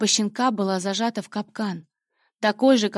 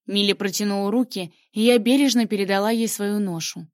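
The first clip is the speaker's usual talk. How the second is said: ordinary delivery, nothing marked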